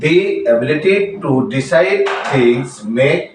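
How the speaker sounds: slow reading, "The" pronounced dee before "ability"; long ee vowel in "The". Shown as a demonstration. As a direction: read slowly, saying "The ability" as dee ability. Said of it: "তাহলে তার উচ্চারণ হবে দি".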